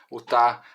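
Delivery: tá said as one short, loud, accented syllable; demo syllable tá. Shown as a demonstration. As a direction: stress the syllable tá clearly. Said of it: "é uma sílaba, né, digamos assim, ilustrativa". (a sílaba tá, curta e acentuada)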